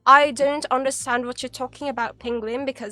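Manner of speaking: mock-puzzled British accent. Streamer pretending not to understand a viewer, British accent. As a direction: play the baffled British foreigner. Feigns British speaker ignorant of Tagalog.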